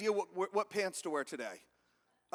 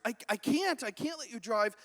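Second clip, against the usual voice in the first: flustered limo driver, higher at first; mild mock panic; 4 semitones higher, 3 dB louder than usual. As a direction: stammer a worried refusal. Nervous driver refusing the Pope.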